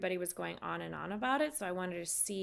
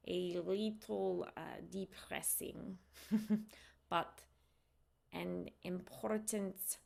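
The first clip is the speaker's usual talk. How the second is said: put-on slow, deliberate Russian accent; practising Russian accent, unhurried; 3 dB quieter, slower than usual. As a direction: keep up a careful Russian accent, thinking of each word. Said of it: "my Russian accent is slow".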